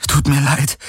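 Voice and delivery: high, voiced apology; Kirai apologizing aloud. A narrator's reading. Kirai apologizes aloud to Hawks, high and voiced.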